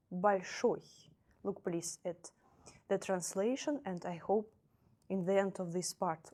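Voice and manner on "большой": большой, stress on final ой, falling; stressed ending ой. Shown as a demonstration. Teacher to class, repeating большой. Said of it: "So, for example".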